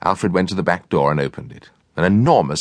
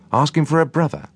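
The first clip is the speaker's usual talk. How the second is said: high cook voice; 10 semitones higher than usual. A narrator's reading. Cook's voice.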